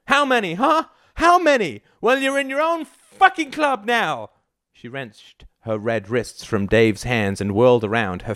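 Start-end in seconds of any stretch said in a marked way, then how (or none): 0.1-4.3 very high, strained yelling; furious taunting. A narrator's reading. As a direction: hurl the questions as accusations. Heated accusations during the fight.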